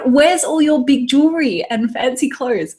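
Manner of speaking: mock quizzing of a tarot reader. Client quizzing her tarot reader, mock challenge. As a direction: imitate a sceptical client demanding answers. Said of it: "this woman immediately quizzed".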